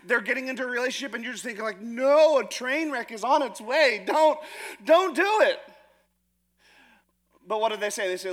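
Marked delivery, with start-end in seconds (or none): 1.8-5.6 urgent warning. Retold or imitated. Warning a friend off a relationship.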